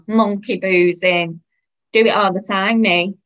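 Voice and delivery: loud, slow, boastful announcement; proud of it, at full volume; all proud. Acted. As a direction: brag cheerfully about a bad habit. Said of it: "she said, all proud and that".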